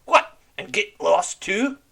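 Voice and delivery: mock the plan loudly; scornful shout. Red Ram scoffs.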